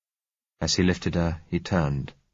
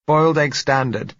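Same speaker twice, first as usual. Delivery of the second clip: muffled, as if from behind a door; a voice muffled behind a closed door; 9 semitones higher, 6 dB louder than usual. A narrator's reading. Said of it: "said her muffled voice".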